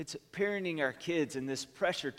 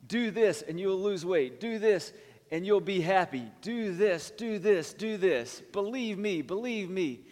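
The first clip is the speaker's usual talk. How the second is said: insistent commands building higher and louder; hammering orders like a pushy expert, higher and louder; mock screaming authors; 6 semitones higher, 5 dB louder than usual. Preacher mimics authors screaming at him, higher and louder. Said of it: "they were screaming at me".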